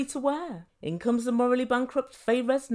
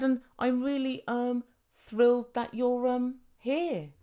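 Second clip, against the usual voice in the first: halting, with stalling ums; unconvincing line reading; slower than usual. Retold or imitated. Guest greets another at dinner, unconvincing and halting. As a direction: stumble slowly through a badly delivered line. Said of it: "said your lines a little bit more convincingly".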